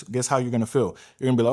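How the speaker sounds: ordinary talk, nothing marked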